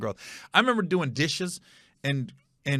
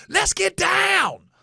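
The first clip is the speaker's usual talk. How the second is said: slow, high mock battle cry; mad stepdad; 4 dB louder, much slower than usual. Son imitating stepdad's fighting catchphrase, slow mock shouting. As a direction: stretch it out in a hammed-up high shout. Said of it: "That's what he used to say".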